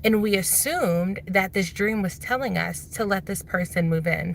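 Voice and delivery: talking with retainers in; slightly lisping through retainers; wearing a retainer. Real, not acted. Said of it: "Sorry, I have my retainers in".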